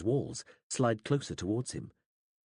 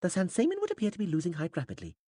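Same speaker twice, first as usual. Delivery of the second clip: high, stiff, formal alien voice; measured, higher alien speech; alien interpreter; 9 semitones higher, faster than usual. A narrator's reading. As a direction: explain it like a pedantic alien interpreter.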